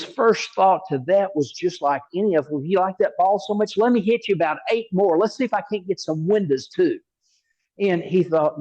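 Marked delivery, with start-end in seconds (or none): 2.6-7.0 higher, quicker imagined comeback; mock retort. Golfer imagining his answer to the rude homeowner, mock irritated.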